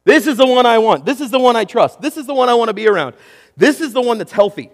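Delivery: a congregation confidently choosing the better option; eager confident crowd. Acted. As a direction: sell the pick with naive enthusiasm. Voicing the crowd's confident choice.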